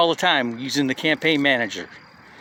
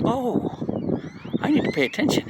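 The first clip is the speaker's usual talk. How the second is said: much higher, stunned "oh"; wide-eyed realization; 9 semitones higher than usual. Retold or imitated. Realizing the guy's big earnings.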